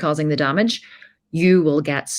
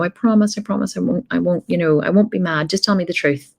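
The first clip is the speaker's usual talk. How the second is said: fake friendly; 3 semitones higher than usual. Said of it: "He put on this whole act of being my friend".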